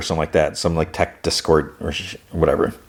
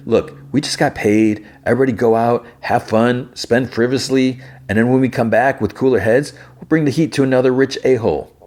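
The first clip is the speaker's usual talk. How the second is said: lightly voiced crew boss, higher pitch; Hood; 5 semitones higher than usual. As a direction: lightly act a leader rallying the crew, pitched up. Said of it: "And Hood's like".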